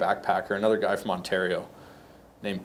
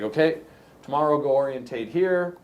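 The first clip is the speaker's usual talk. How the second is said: put-on Australian accent; 2 semitones higher than usual. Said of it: "That's pretty good accent".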